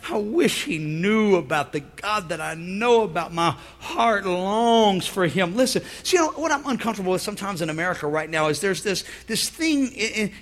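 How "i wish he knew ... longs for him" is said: pathos. Retold or imitated. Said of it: "Pathos, cry".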